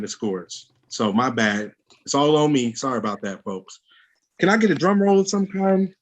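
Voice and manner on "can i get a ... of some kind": high, eager ask to the crowd; excited call. Real, not acted. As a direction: hype the room up for a drum roll. Host asks crowd for drum roll.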